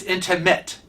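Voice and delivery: "intimate" ending in "mitt", no n; correct intimate. Shown as a demonstration. Correcting Kevin's habit, "intimate" ending like baseball mitt. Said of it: "Mitt is in a baseball mitt".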